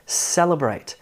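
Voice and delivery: celebrate: some CEL, tiny middle, big BRATE; stress on third syllable. Shown as a demonstration. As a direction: celebrate with most weight on BRATE. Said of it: "brate, gets most of the emphasis".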